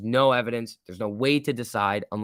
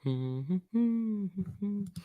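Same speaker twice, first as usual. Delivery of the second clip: hummed noise; 9 semitones higher, 8 dB quieter than usual. Real, not acted. Wordless sound while watching charts.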